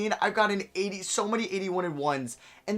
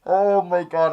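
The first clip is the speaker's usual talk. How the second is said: overwhelmed gasp; 4 semitones higher, 10 dB louder, slower than usual. Real, not acted. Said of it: "I'm gonna cry".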